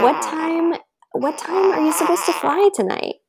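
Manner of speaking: high, singsong feigned nonchalance; mock casual. Wife in labor asking pilot husband, mock casual. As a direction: ask it lightly, pitched well up.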